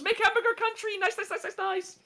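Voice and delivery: high, fast, excited squeal; imitating an excited Japanese girl; mock excited girl. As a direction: gush like a thrilled fan. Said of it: "she gets all excited".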